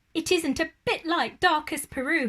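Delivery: high, bright little bear voice; announced. A narrator's reading. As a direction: proudly announce it as Paddington. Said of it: "he announced".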